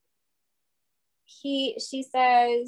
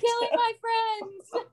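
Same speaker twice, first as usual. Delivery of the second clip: high, slow wail through laughter; laughing mock wail; 10 semitones higher, 3 dB quieter, slower than usual. Real, not acted. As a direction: lament playfully, voice pitched way up. Joins the mock lament, laughing.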